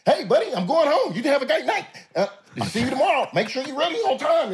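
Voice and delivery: a relentlessly upbeat boss signing off, half laughing; mock coach, squeaky high and brisk; Pete's chipper goodbye. Imitating Pete leaving at night.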